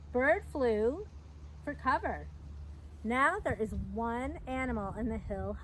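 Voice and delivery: slow, lively picture-book storytelling; reading to children. A narrator's reading. Reading The Big Storm aloud to young listeners, lively storyteller. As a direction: read it like story time for little kids.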